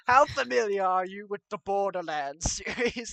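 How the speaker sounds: lightly put-on British accent; a hint of British in the voice. Mikey Myers quizzing Fassbender about Borderlands, lightly British accent. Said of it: "Mikey Myers has a British accent".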